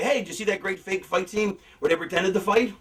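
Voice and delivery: level, deadpan mock praise; sarcastic, unimpressed. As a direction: say it like the illusion was broken. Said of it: "You don't go say".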